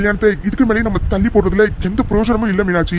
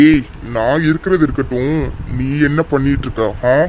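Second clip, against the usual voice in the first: low, menacing challenge; stern confrontation; 5 semitones lower than usual. Acted. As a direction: confront him as an angry father. Angry father confronts daughter's suitor.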